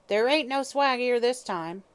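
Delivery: put-on old woman harshly questions the detective; harsh hag. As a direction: bark the question suspiciously. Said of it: "she asked harshly".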